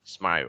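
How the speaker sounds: "smile" with an "o" sound in the final L; final dark L. Shown as a demonstration. Teacher explaining the final L sound, dark L shown. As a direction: end "smile" as "smai-ol". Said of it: "có âm L cuối này nó hơi có âm ồ".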